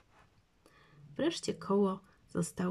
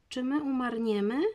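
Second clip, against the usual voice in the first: put-on frightened child; 6 semitones higher than usual. A narrator's reading. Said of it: "przestraszyła się Basia".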